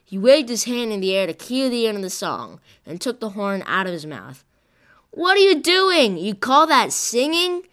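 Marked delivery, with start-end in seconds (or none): 5.1-7.7 much higher and louder, outraged; indignant bandleader exclaiming, pitch shooting up; exclaiming in disbelief. A narrator's reading. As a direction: blurt it out, appalled at the singing. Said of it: "he exclaimed".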